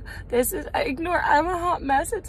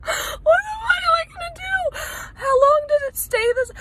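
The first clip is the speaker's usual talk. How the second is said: laughing; 9 semitones higher than usual. Real, not acted. Panicking laughing about numb eye.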